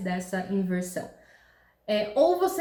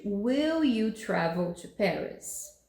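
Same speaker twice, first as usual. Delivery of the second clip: slow, careful example question; question word order demo; slower than usual. Shown as a demonstration. Teacher models the question slowly for students. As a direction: read the example slowly, stressing will. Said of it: "a gente tem que trazer o will pra frente".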